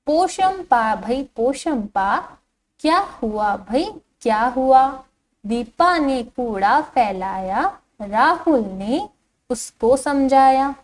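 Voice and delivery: put-on slow, lilting children's poem reading; poem recitation. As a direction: read the verse out slowly for young pupils. Reads the next stanza aloud. (बच्चों के लिए लय में धीमा कविता पाठ)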